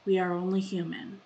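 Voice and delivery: deliberate spoken poem with long pauses; a solemn, measured plea for forgiveness; poem reading. Acted. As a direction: open each plea firmly, let the endings fade. Reads own poem aloud.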